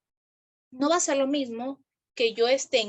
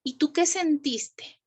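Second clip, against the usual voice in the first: gentle question; 2 semitones higher, slower than usual. Shown as a demonstration. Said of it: "le puedo preguntar".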